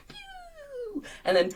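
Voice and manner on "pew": light, thin imitated rocket whistle; firework whistle. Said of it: "almost like a firework shape that goes".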